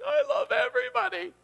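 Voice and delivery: giddy, high joy; gushing joy. Retold or imitated. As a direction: gush like someone freshly overjoyed. Joyful after worship.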